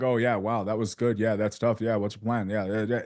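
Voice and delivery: monotone, no inflection; flat. Shown as a demonstration. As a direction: drone it flatly with no feeling. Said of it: "It's just flat all the way through".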